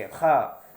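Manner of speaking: खा rasped from the throat like clearing it; throat-clearing kha. Shown as a demonstration. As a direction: scrape खा out of the throat. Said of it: "खखार करके".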